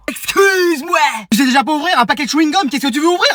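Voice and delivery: high-pitched incredulous outburst; outraged disbelief. Acted. Adult scoffing at student's career plan, outraged disbelief. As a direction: squawk in disbelief, then rattle on.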